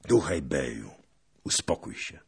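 restrained appeal dropping away in volume; cooled-down calming. A narrator's reading. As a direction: settle down and soothe an angry ally. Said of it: "Ochłonął pierwszy Chmielnicki".

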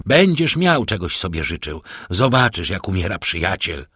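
put-on a despairing young man taunting his benefactor; frenzied defiance. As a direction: throw his death in the count's face. Morel's frenzied final defiance.

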